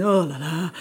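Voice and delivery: slow, weary French "oh la la"; dismayed "oh la la". Acted. Seeing a long queue at the prefecture, dismayed. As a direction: draw out a mildly dismayed "oh la la". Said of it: "You might hear it in a bad way".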